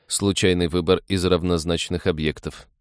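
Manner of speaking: flat, level robotic readout; indifferent machine voice. Acted. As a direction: say it like an unfeeling cyborg. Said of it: "равнодушно отозвался Декс".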